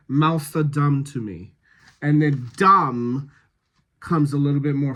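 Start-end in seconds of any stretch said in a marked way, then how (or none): 0.1-1.5 "mouths" ending in an S sound instead of TH. Shown as a demonstration. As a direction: say "mouths" as if spelt with an S. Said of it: "turning that T H into a S sound".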